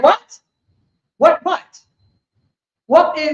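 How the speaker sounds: mock evasive talker. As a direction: play dumb with rising What?. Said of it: "This is how he talk".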